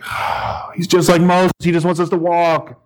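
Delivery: sighed oh, then a mock complaint; lightly acted grumbling crowd; grumbling people. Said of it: "people were starting to grumble".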